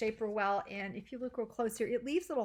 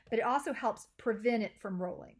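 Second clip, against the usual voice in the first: "prevent" said with extra emphasis, a little louder; stress on PREVENT; 3 dB louder than usual. Real, not acted. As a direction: lean on the word "prevent". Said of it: "Emphasis on the word prevent".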